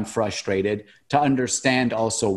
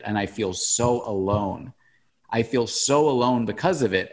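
choked up. Real, not acted. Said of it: "I'm getting choked up now".

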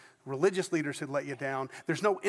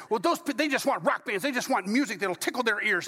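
sniffy disapproval; 5 semitones higher than usual. Retold or imitated. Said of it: "kinda saying".

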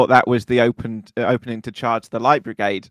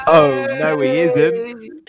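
panto crowd callback; 3 semitones higher, much slower than usual. Acted.

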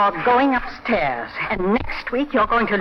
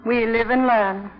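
mock weary helplessness. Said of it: "Helpless and clinging".

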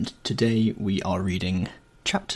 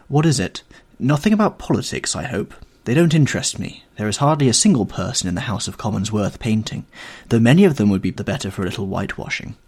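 a hint of an earnest young painter, a little raised; 3 dB louder than usual. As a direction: voice Basil, eager and slightly lifted. Basil voiced in reading.

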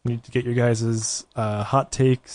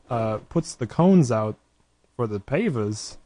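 Christopher Walken impression. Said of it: "good impression of Christopher Walken".

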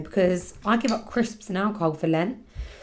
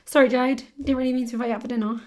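mock friend cancelling; 3 semitones higher, faster than usual. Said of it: "she's not tricking me".

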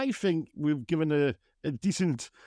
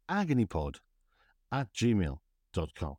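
slow, lower radio DJ read; a hint of a radio presenter; deep chesty voice; 5 semitones lower, slower than usual. Shown as a demonstration. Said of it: "I'm practicing using my radio voice".

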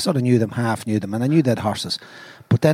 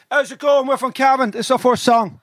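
band singer voice; 9 semitones higher than usual. Retold or imitated. Cover band singer greeting crowd.

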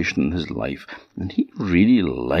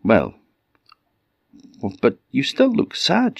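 high, light mouse princess voice; a small, concerned mouse voice; cartoon princess; 8 semitones higher than usual. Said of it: "she said".

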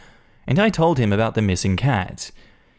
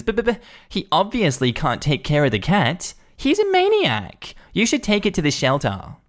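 flustered whiny protest; 7 semitones higher than usual. Retold or imitated. Karen protests to animal control.

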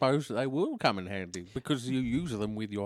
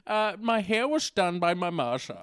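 lightly voiced accented dictator dishing out fashion advice; Mister Addy; 3 semitones higher than usual. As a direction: play a chatty accented dictator on a fashion show.

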